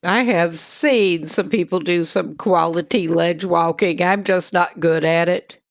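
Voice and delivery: talking between slurps of a drink; sipping a drink while talking; slurping. Real, not acted. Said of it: "Excuse the slurping".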